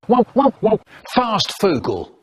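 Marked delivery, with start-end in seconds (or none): 0.1-0.8 alarmed whoa. Acted. Alarmed reaction.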